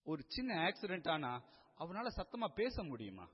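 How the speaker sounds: ordinary delivery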